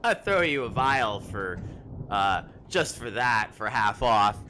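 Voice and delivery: loud, teasing merchant voice; amused merchant. Acted. Merchant amused by Draymond, loud teasing offer. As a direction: offer the discount with glee. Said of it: "and she goes".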